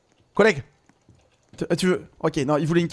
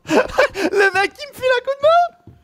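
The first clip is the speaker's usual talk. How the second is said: laughing; 13 semitones higher, slower than usual. Real, not acted. Laughing remark.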